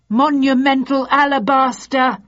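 high, loud frightened shriek; terrified cry. Acted. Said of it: "gave out a terrified cry".

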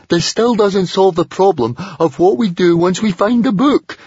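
high, loud worrier's complaint; high-voiced stubborn naysayer; gloomy Fishlegs. A narrator's reading. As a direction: pitch it right up and protest stubbornly. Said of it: "stubbornly sticking to his gloomy view".

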